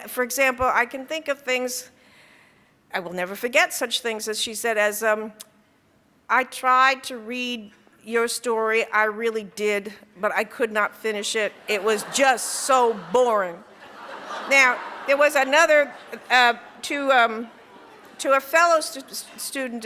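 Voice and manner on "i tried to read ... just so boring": retold harsh criticism. Harsh professor to writing student about a dull story, mock severity. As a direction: let them have it, with measured emphasis. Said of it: "angry at your weaknesses as a writer".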